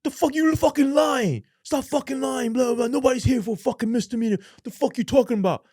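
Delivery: high, loud incredulous yelling; disbelieving shout. Retold or imitated. Inmates shouting at him for claiming a misdemeanor, mock outrage. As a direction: yell it like he's obviously lying.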